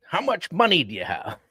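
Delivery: high blunt demand for the budget; blunt money question. Shown as a demonstration. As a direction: ask it too bluntly, the way not to. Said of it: "You don't wanna say that".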